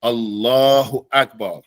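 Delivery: slow Allahu Akbar, the double l of Allah held; teacher showing the shadda; shadda shown on Allah. Shown as a demonstration. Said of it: "where Allah is a shadda".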